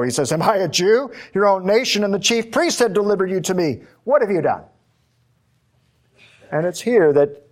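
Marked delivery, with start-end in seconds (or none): 0.3-4.6 dismissive Pilate. Pretend. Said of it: "he really doesn't want to know".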